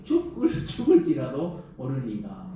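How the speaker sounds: slow mocking quote broken by a laugh; laughing at Jonah. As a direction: chuckle through Jonah's stubborn words. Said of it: "여기 또 죽기까지 얘기해".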